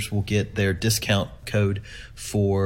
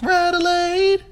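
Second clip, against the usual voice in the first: high, drawn-out cheer; excited shout; 4 dB louder, slower than usual. Real, not acted. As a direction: sing out the city name. Excited callout of the city.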